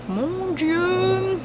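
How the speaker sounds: high dismayed mon Dieu; dismayed exclamation. Retold or imitated. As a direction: cry out in mock dismay. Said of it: "je me suis dit".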